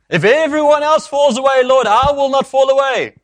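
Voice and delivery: high, loud, insistent declaration; vehement vow. Acted. Disciple swearing loyalty to his Lord, vehement vow. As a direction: proclaim it at full voice as an impassioned pledge. Acts Peter's later vow.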